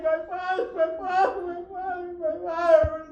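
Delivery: high, tearful and fading; the preacher gives the girl's weeping call for her father; crying. Acted. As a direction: sob the words out softly like a small girl. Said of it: "she comes crying and crying".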